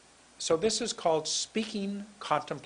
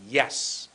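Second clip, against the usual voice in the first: YES pushed out firmly; big intonation. Shown as a demonstration. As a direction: give YES a strong push. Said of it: "How about if I go like this".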